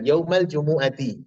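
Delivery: Yaumal jumu'ati slowly linked, ending "ti"; bacaan mudhaf. Shown as a demonstration. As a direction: join Yaumal jumu'ati as one slow phrase. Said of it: "mudhafun ilaih dari yauma". (Yaumal jumu'ati disambung pelan, berakhir kasrah)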